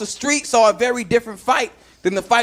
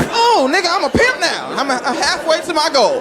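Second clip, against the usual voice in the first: excited boast; 4 semitones higher than usual. Retold or imitated. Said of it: "I was like".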